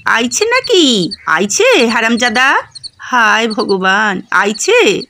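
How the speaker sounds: put-on slow, quavering old man calling out; a frail old father crying out in dismay; old man calling from the house, slow and shaky; trembling cry. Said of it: "কাঁপা গলায় চেঁচায়".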